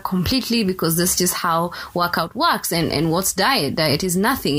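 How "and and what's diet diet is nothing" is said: dry mock-serious claim; sarcastic. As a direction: say it deadpan, knowing it's a joke. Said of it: "I'm being sarcastic".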